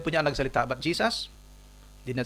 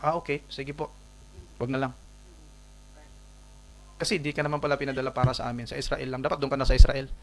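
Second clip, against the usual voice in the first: sarcastic woman. Acted. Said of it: "ang babae sabihin na".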